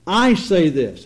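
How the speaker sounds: "I" pressed firmly at the start; insisting. Retold or imitated. Preacher voicing Jesus insisting on his own authority, insistent. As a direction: lean on "I", then fall away.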